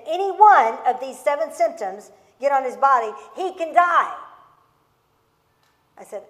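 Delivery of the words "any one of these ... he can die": doctor's stern warning. Retold or imitated. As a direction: hammer home the danger. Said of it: "And he said".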